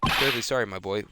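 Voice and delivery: lightly voiced formal, regretful boss; apologetic senior lawyer. Senior lawyer turning down the case, mildly apologetic. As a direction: decline with a touch of measured regret.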